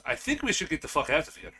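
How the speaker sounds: Zeltron. Acted. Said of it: "Zeltron goes".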